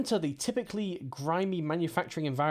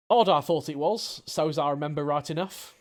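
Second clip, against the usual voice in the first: put-on Cockney accent. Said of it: "my amazing Cockney accent".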